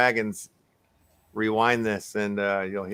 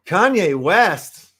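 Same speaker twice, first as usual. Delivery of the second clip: incredulous; 7 semitones higher, 8 dB louder, much slower than usual. Real, not acted. Reacting to surprising news.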